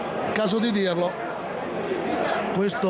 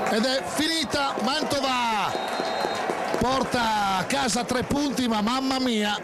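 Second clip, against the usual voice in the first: excited final whistle call; 5 semitones higher than usual. Real, not acted.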